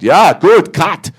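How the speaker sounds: high, loud, delighted "cut"; delighted director. Retold or imitated. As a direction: call the cut like a thrilled director.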